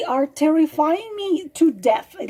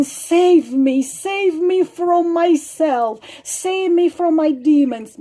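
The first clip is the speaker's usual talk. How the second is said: mock pleading; 3 semitones higher, 4 dB louder, slower than usual. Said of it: "the sad eyes and crocodile tears".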